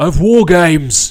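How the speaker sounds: terrible voice, very high and booming, belted out. Host opening a Survivor Series War Games video: terrible William Regal impression. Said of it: "that was a terrible William Regal impression".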